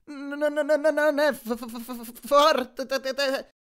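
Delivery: high, juddering stutter shaken by the bed; Grover's voice shaking on the massage bed; vibrating voice. A narrator's reading. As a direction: let the massage rattle every syllable. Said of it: "la voce che vibrava per via del massaggio".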